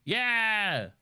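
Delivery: mock cheer. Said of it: "she's like".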